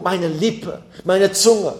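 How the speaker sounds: "meine" jeweils betont, "Lippe" und "Zunge" leiser nachgesetzt; Betonung auf meine. Shown as a demonstration. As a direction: das "meine" herausheben, als gehöre es wirklich mir. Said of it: "Diese Betonung". (Betonung auf "meine" in "meine Lippe, meine Zunge")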